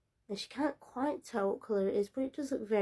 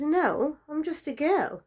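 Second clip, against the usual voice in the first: put-on scared girl; 3 semitones higher, 5 dB louder than usual. Scared girl pleads with the creature she knows nothing.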